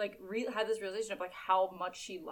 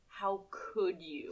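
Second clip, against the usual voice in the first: hurt; 3 semitones lower, 5 dB quieter, slower than usual. Retold or imitated. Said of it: "She looks up at him with such".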